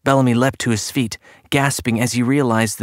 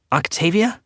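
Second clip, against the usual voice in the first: higher, rising questioning call; 6 semitones higher than usual. A narrator's reading. Boy calls for his sister in the silent flat, calling out. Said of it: "he called".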